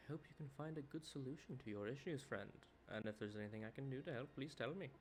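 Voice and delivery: a light put-on accent for the AI friend. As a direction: voice the AI companion in a mild put-on accent. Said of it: "Why did I do that accent".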